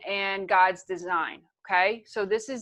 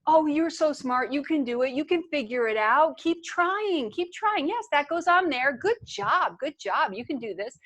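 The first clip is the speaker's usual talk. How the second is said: lightly acted parental cheerleading; encouraging parent; 5 semitones higher than usual. Parent to toddler struggling with blocks, lightly acted encouragement. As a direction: gently coax a little child along. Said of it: "playing with your blocks and you're having trouble and".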